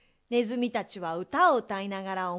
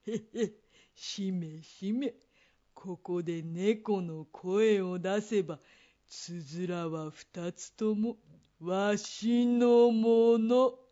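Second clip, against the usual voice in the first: sly scheming; 3 semitones lower, much slower than usual. Acted. Scheming old man.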